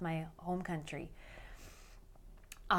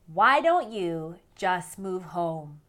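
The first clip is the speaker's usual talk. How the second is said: slow, louder, every word drawn out; mock naggy question; 7 dB louder, much slower than usual. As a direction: hand down the advice everyone gives. Quoting the question expats hear.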